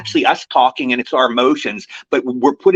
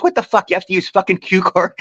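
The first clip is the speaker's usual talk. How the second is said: teasing mock outburst, pitched higher; mock outrage, higher; 4 semitones higher than usual. Tom Hanks ribbing an actor over cue cards, mock outrage, higher. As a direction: razz him like a fellow pro, higher. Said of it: "he was saying tongue in cheek".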